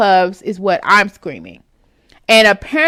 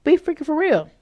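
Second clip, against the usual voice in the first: be for real; 6 semitones higher, faster than usual. Pretend. Mock exasperated aside.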